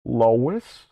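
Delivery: low cartoon husband voice; Peter. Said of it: "Oh, Lois".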